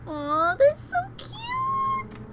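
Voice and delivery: very high, drawn-out loud squeal; gushing squeal. Real, not acted. Reader reacting to cute characters, gushing squeal. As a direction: squeal slowly, overcome by cuteness.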